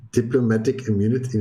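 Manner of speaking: put-on a barely-there South African accent that collapses; failed South African accent. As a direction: try the South African accent and let it fall flat. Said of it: "I keep having this urge to say diplomatic immunity in a South African accent".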